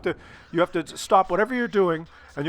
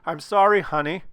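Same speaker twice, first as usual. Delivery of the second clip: sincere apology. Shown as a demonstration. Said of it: "You have to".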